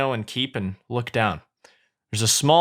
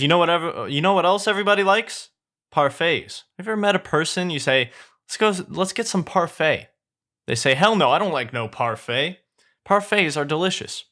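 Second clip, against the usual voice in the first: lightly voiced chatty sidekick; a touch of eager chatter; enthusing Donkey; 4 semitones higher than usual. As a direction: lightly play a sidekick pitching a favourite treat.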